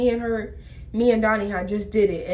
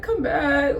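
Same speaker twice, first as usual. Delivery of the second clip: mock crying; 4 semitones higher than usual. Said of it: "But I'm just like".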